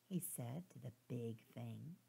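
plain reading voice

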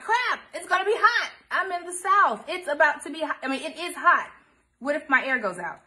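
high, loud panicked rush of worry; mock panic. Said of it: "I'm like".

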